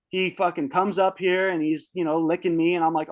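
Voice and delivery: ordinary talk, nothing marked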